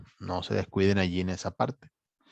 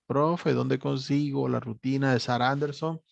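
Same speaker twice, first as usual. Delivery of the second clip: lightly voiced student question, pitched higher; student asking; 4 semitones higher than usual. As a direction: ask the teacher like a puzzled student. (alumno que pregunta al profe, tono más agudo)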